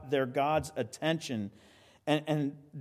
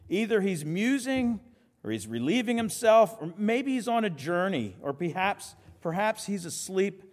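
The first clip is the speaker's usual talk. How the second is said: mocking; 4 semitones higher than usual. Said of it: "Elijah starts mocking them".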